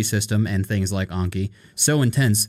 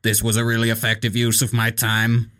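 robot voice. Retold or imitated.

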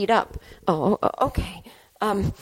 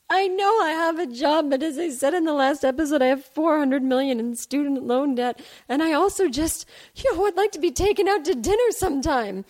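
lingering tearful plea; 5 semitones higher than usual. Acted.

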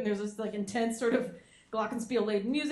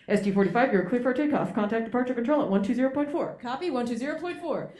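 louder radio control announcer; control tower voice; 4 dB louder than usual. Retold or imitated. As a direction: call it like air traffic control. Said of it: "the voice goes".

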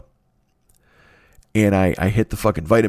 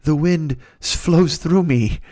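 higher, slow and airy like a self-serious guru; mock Tai Chi guru; 3 semitones higher, slower than usual. Mocking a stretching yogi, hammed-up slow mystic voice. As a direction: drag it out like a zen master who takes himself too seriously. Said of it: "be that fucking Tai Chi asshole".

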